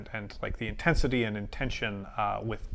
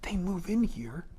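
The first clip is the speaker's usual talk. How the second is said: much higher and louder, frustrated pleading; exasperated outburst; 10 semitones higher, 9 dB louder than usual. Acted. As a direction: throw up your hands, exasperated. Frustrated outburst at stubborn deer.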